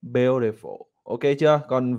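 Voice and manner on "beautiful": "She is very beautiful" split into single words with long pauses; slow, spaced teacher demo. Shown as a demonstration. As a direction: separate every word for practice. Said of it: "thầy phải tách từng câu ra".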